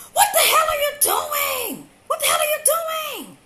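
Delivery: high furious scream. Retold or imitated. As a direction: shriek it at them in shock. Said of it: "and I screamed".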